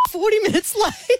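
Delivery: words break into a high laugh; giggling embarrassed admission. Real, not acted. Confessing she arrived late.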